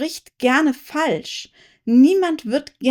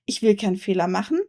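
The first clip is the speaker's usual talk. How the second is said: rushed fearful thought; 4 semitones lower, much faster than usual. Shown as a demonstration.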